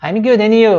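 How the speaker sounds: "and you" run together, the D of "and" dropped; casual American "and you", no D in "and"; swallowed D. Shown as a demonstration. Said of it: "meio que engolir essa letrinha aqui".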